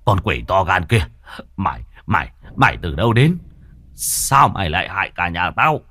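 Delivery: husband yelling at the demon wife; angry shout. Acted. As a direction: bark at her like an outraged master. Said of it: "mà quát".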